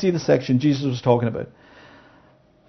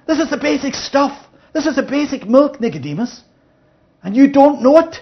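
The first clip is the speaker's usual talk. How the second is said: emphatic raised voice; 10 semitones higher, 5 dB louder than usual. Retold or imitated. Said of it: "he's effectively saying to Nicodemus".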